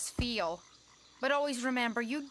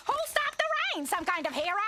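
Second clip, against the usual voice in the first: menacing; 9 semitones higher, faster than usual. Acted. Threatening with movie titles.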